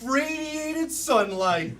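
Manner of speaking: very slow, drawn-out blissful voice; playing bliss. Improv player marvelling at golden light, put-on bliss. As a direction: float dreamily through each stretched word. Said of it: "I'm gonna take bliss".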